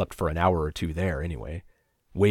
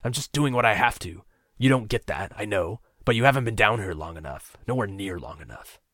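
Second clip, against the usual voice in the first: raised, pleading outburst, loud on not a monster; desperate, near tears; 4 semitones higher, 5 dB louder than usual. Acted. Captor justifies himself to captive, desperate and near tears. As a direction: fight back tears while insisting. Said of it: "He sounded desperate, near tears".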